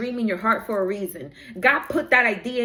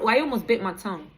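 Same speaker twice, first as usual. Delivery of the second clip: quick, tumbling aside; speaking too fast; 3 semitones lower, faster than usual. Real, not acted. Streamer remarking on almost biting their tongue, speaking too fast. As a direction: rush through it, nearly tripping over the words. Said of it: "I'm speaking a little fast".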